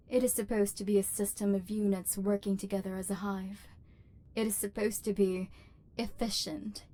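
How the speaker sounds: cold, measured machine voice; a cold robot overlord. Acted.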